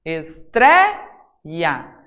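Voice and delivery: "Estreia" broken as "es-tré... ia"; "Estreia" in separate syllables, stressed in the middle; split into syllables. Shown as a demonstration. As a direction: lift "tré" in "Estreia", pause, then drop on the end. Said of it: "A tônica tá aqui".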